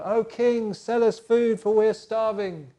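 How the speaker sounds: high, loud, desperate begging; pleading brothers. Acted. Hungry brothers begging the king for food, loud and high.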